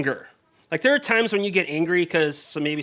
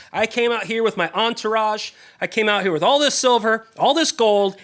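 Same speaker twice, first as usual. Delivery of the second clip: louder, indignant listing of his gifts; retold angry boast; 5 semitones higher, 4 dB louder than usual. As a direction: puff up, offended he was snubbed. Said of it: "And so he's just angry".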